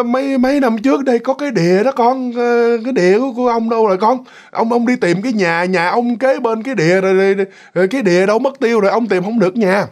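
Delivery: hesitant elder, searching for his words; feeble old man. Acted. Old man tells boy he can't find his house, lightly faltering. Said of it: "một cái giọng người già, mà cái giọng nó rất là yếu ớt".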